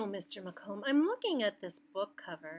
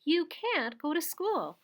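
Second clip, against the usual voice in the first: firm mother; 7 semitones higher, slower than usual. Acted. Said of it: "Her mother said".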